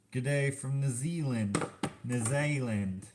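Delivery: put-on slow, failed stab at a New Zealand accent; badly faked Kiwi accent, stretching the vowels; attempted New Zealand accent. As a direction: try a New Zealand accent, drawn out and unconvincing. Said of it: "Can't do a New Zealand accent".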